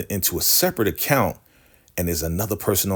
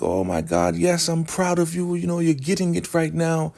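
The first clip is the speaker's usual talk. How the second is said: high, smug mock pride in a falsetto; patronising praise pitched way up; hammed-up high matriarch voice; mock Elder Mother; 9 semitones higher than usual. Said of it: "Elder Mother is just like".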